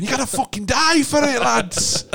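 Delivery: hammed-up gruff manager, half laughing; old-school English manager. Neil Warnock giving a player a kick, high mock rant.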